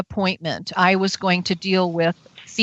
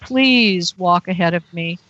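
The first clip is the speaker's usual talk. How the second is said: retold prayer. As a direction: pray it under your breath. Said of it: "I'm just thinking".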